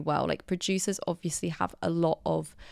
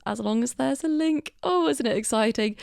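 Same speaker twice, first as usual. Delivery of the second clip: mock excitement; 5 semitones higher than usual. Teasing the episode's link theme.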